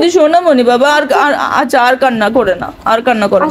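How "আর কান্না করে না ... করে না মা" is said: soothing. Real, not acted. Soothing her crying child.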